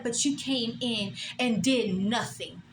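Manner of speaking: slow, drawn-out mock of the boss; mocking boss's tone. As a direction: imitate her slow put-down. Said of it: "That's how she said it".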